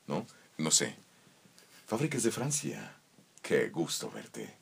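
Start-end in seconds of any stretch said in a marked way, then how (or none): 1.9-4.5 lento y más grave, voz de anuncio; locución comercial. Shown as a demonstration. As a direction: vende el coche con calma. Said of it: "labor de venta al final". (anuncio de coche, lento y grave)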